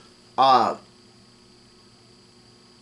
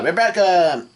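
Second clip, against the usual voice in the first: raised, higher mock call-out; retold yell; 6 semitones higher, 4 dB louder than usual. Luffy calls up to Rebecca at the palace window, mock yell. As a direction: call the name out high, half-shouting. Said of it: "yells out".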